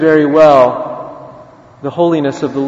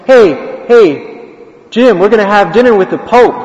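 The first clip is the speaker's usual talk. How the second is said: higher, eager retold hail; excited calling out; 5 semitones higher, 4 dB louder than usual. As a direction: call a friend over with big news. Priest calls out to beggar.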